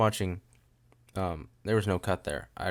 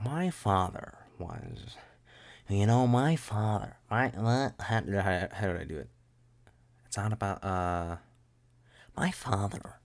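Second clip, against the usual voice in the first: dramatic reading. Retold or imitated. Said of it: "I got all the people at the young adult thing to go".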